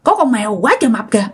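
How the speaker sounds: calling drinking buddies. Retold or imitated. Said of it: "cha mới đứng dậy nói với bạn nhậu của mình".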